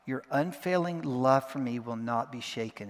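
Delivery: "unfailing" leaned on in a steady declaration; measured line with "unfailing" emphasized; stress on unfailing. Shown as a demonstration. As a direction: declare it firmly, weighting "unfailing". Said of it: "taking it one word at a time".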